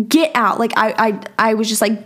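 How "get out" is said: higher, mock-furious order; retold screaming. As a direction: reenact throwing someone out, without full volume. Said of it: "I was screaming".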